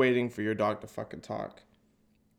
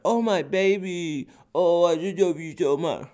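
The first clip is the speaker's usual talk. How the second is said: gushing dog lover; 6 semitones higher, 5 dB louder than usual. Retold or imitated. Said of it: "They're like".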